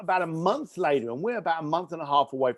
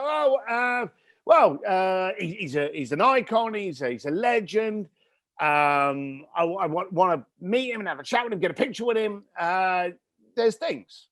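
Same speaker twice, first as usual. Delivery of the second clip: stumbling bravado; 5 semitones higher than usual. Retold or imitated. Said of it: "I could see he was stumbling".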